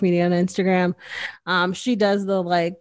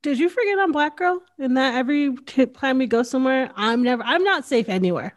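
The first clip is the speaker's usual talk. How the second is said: incredulous retort; 5 semitones higher than usual. Retold or imitated. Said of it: "I'm like".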